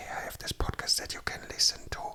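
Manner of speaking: hushed, very quiet voice. Telling people about a podcast, showing how: very quiet. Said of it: "you have to say it like this ... but very quietly".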